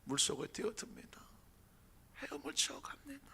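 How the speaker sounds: 물속에 whispered, voice dropped to a breath. Shown as a demonstration. Preacher whispering Peter's plunge to the congregation. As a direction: breathe 물속에 뛰어듭니다 as a secret.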